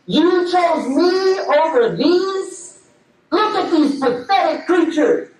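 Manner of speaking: lightly voiced devil, mocking and sing-song in places; a hint of a sneering devil laughing at his dupes; gloating Shaitan. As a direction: Shaitan gloating over fooled people, mildly mocking. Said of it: "he's just laughing at the".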